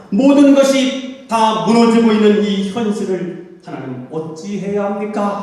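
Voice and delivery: fervent preaching, swelling then easing; pleading lament. Real, not acted. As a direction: plead helplessly from the pulpit. Laments to God in sermon.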